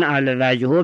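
الوجهو ending in a u sound; nominative ending. Shown as a demonstration. Teacher reading out a grammar example, nominative u ending on الوجهو. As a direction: say الوجهو with the final u voiced. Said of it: "بالرفع".

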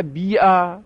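بیعه said bi'a, with long i; bi'a, the first vowel a long i in بیعه; kasra moved to ba. Shown as a demonstration.

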